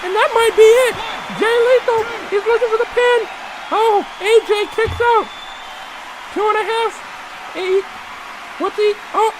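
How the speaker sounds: ringside play-by-play call; wrestling commentator. Acted. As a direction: call the match live like a ringside announcer.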